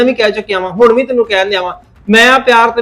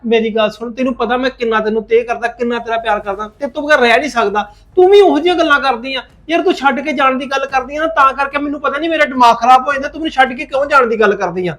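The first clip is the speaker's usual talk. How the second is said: pleading; 2 semitones higher, 3 dB quieter than usual. Acted. Husband pleads softly with wife.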